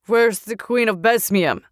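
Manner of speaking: mild soldier shout. Acted. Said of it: "a soldier shouted".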